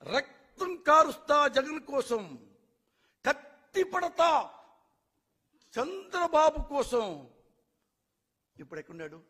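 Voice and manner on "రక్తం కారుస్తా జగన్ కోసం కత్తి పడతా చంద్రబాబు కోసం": mocking a loyal vow. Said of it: "ఆ గుమ్మరూరు జయరాం".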